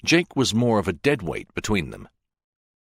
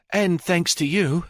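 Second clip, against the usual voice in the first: higher, tender, a touch teary; a little teary; 9 semitones higher than usual. Acted. Officer thanks August back, a little teary. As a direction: let a little tremble in. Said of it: "She got a little teary".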